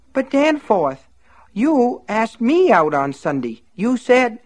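high, slow, tearful plea; pained pleading. Acted. Myrtle pleads with Danforth, blood in her eyes, high slow plea. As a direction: beg him through the pain.

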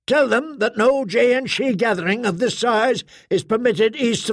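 high, imperious orders; commanding squad mother. Acted. Blonde soldier ordering Arik to clear the crowd, commanding.

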